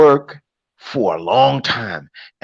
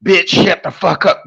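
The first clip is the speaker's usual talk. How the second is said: slow, mock domineering rant, only a touch raised; bossy macho quote; 3 semitones higher, 4 dB louder than usual. A man mockingly voicing a controlling boyfriend, mild mock bark. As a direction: mimic a bully barking orders at his woman, lightly. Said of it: "They're not gonna talk like".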